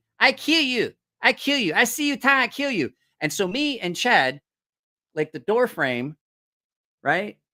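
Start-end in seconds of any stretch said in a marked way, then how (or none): 0.2-2.9 put-on young woman voice, high-pitched yelling. Retelling what a young lady in the room was yelling: imitating someone yelling. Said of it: "I hear a young lady in there yelling".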